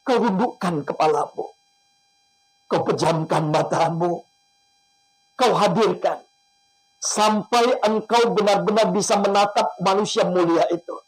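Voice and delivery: emotional prayer. Acted. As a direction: plead with God, guiding the listeners. Leads an emotional prayer and guided imagery.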